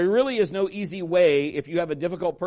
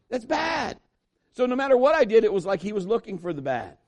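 normal talking voice

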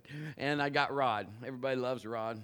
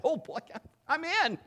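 high, eager and louder; excited; 12 semitones higher, 3 dB louder than usual. Acted. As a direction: jump at the offer, thrilled. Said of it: "He's, he's excited".

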